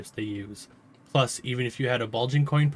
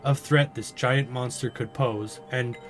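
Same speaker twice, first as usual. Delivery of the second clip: nervous mayor. Acted. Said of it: "She chuckles nervously".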